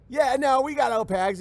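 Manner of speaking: mock a keen Mexican laborer's accent; eager Mexican worker. Mexican worker eagerly offering to do the job, mock accent. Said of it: "It's like".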